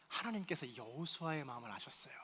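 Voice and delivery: hushed whispered reveal. Real, not acted. Pastor revealing God knew Joshua's heart, whispering. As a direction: lean in and whisper it. Sermon turns to God's knowing.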